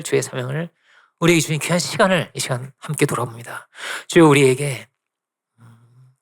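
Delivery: measured, halting prayer voice; closing prayer. Real, not acted. Preacher praying to the Lord after the sermon, reverent prayer. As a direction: pray aloud earnestly, pausing between phrases.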